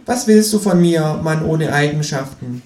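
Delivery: high, cheeky kangaroo voice; high, sulky kangaroo. Acted. Kangaroo's voice in the story.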